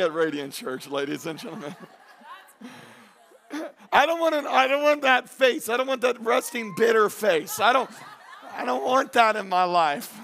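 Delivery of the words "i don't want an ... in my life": emphatic. Real, not acted. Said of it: "preacher shouts against bitter face".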